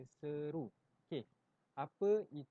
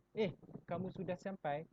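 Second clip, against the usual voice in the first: higher, louder startled "Eh"; surprised; 6 semitones higher, 4 dB louder than usual. Shown as a demonstration. Teacher showing pupils how to sound surprised. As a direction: caught off guard by an arrival. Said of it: "perasaan hairan atau terkejut".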